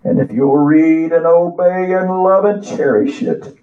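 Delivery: slow, sing-song preacher recitation; poem recital. Acted. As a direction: recite it like a hymn from the pulpit.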